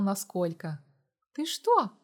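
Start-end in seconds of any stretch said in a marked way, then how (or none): 1.3-1.9 higher, startled gasp of a question; gasping in shock. A narrator's reading. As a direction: gasp it out, taken aback. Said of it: "ахнула Амалия".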